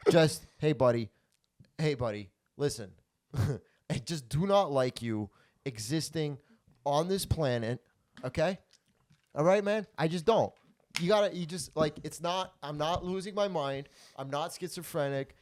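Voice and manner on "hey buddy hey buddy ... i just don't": measured, deliberate calm, with pauses between phrases; calm confrontation. Acted. Telling a buddy you don't like him, acted calm. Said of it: "say it in a calm way".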